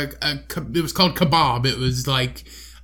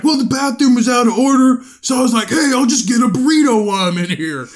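mocking Cody; 7 semitones higher, 5 dB louder than usual. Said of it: "And he's like".

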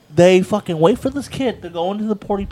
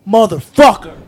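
retold outburst; 7 dB louder than usual. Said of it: "comes running downstairs and says".

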